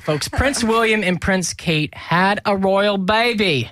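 slow, lightly put-on British accent; a hint of a mock British accent, slow. Host announcing the royal baby in mock British accent. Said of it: "That's me doing a British accent".

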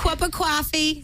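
mock American accent, drawn out; hammed-up American accent, slow. Shown as a demonstration. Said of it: "best impersonation of an American accent".

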